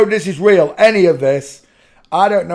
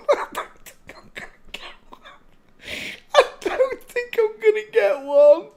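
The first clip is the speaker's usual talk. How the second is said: wheezy start, then a high squeak of real laughter; breathless laughing. Real, not acted. Host doubting the search results, wheezing with laughter. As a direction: force it out with no breath left.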